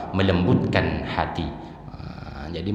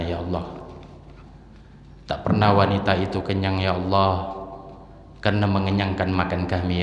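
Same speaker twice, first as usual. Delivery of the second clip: heartfelt prayer. Acted. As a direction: plead gently for the mothers. Leads a tearful supplication.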